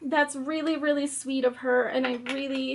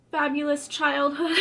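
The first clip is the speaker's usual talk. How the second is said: sarcastic. Acted. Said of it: "Fabulous with sarcasm".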